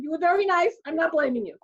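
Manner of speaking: high, loud mock-weepy voice; acted tearful reassurance. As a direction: reassure through pretend tears. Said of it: "I start crying".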